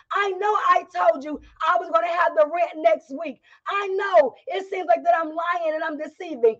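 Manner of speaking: a hint of desperate pleading; needy and clingy. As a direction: beg like someone about to be thrown out. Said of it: "you make these declarations".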